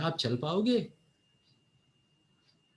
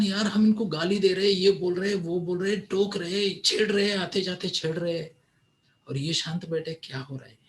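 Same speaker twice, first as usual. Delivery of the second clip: raised, fed-up grumbling crowd voice; annoyed villagers; 4 semitones higher than usual. Acted. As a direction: complain like irritated villagers. Villagers complaining about calm Siddharth.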